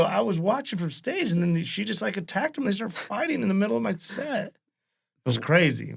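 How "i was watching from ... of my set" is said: 1 retold excited account. Retelling police report.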